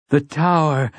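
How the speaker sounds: high echoing cry; cries out. Acted. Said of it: "Cuthbert cries out beside him".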